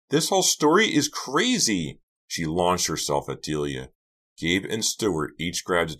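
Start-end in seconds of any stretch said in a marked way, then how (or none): 0.1-2.0 very high, loud outburst; furious shriek. A narrator's reading. Karina launches herself at Delia, furious shriek. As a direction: shriek in outrage, pitch way up. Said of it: "Karina shrieked in fury".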